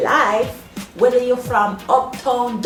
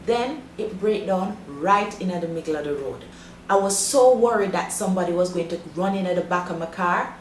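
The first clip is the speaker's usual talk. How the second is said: Jamaican English mixed with patois. Shown as a demonstration. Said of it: "three of the possible ways a Jamaican would say it".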